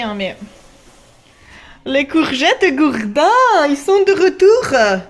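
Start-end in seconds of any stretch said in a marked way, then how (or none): 1.8-5.0 slow booming reveal; dramatic announcement. Pretend. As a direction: announce it like a big comeback.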